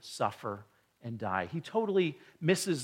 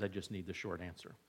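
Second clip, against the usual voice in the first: much softer, fast and low; quiet quick request; 8 semitones lower, 14 dB quieter, faster than usual. Retold or imitated. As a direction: toss it off quietly as the son. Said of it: "I'm thankful when John says".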